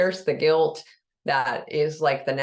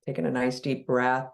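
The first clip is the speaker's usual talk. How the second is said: unhurried meditation guide with long pauses between phrases; guided meditation. Real, not acted. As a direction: ease listeners into relaxing, leaving long silences.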